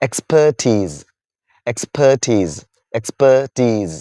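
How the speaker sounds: "Expertise" with stress on the final syllable, ending in a z sound; "Expertise" spoken slowly and clearly, ending in z; model pronunciation. Shown as a demonstration. Teacher repeating the word for students, "Expertise" ending in z. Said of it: "how do you pronounce it".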